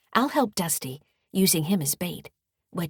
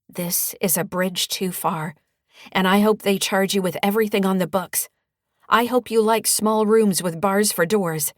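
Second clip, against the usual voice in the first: scowling anger; 3 semitones higher, 7 dB louder than usual. Acted. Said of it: "I scowl".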